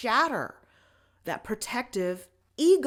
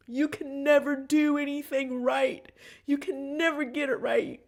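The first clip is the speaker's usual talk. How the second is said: retold mom yelling; 5 semitones higher, 4 dB louder than usual. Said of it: "yell at me and say to me".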